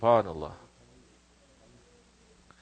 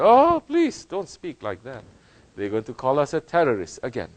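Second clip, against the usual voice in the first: mock whiny quote; 4 semitones higher than usual. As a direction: mimic a nervous modern Muslim begging. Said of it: "So many modern Muslims say".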